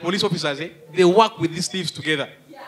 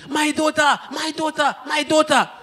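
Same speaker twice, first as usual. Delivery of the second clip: panicked cry; 8 semitones higher than usual. Retold or imitated. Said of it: "the woman started shouting".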